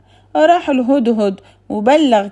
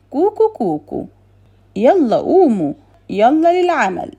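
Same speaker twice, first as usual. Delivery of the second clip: rooster call; 4 semitones higher than usual. Acted. Rooster crows, wakes everyone.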